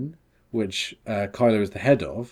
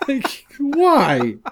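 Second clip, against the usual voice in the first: exasperated; 4 semitones higher, 5 dB louder, much slower than usual. Real, not acted. Exasperated complaint.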